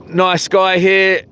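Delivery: normal talking voice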